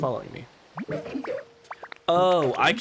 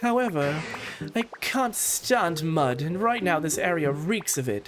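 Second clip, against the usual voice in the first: put-on higher, genteel elderly lady voice; gracious Lapras; 4 semitones higher than usual. Streamer reads Lapras greeting Ditto, a gracious elderly lady. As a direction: play a kindly refined old sea creature.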